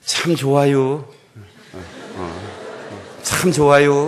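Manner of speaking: bright, drawn-out "참 좋아요" with a laugh between; 참 좋아요, cheering the pew beside you; cheerful greeting. Shown as a demonstration. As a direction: greet your neighbour with delight. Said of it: "이렇게 얘기합시다".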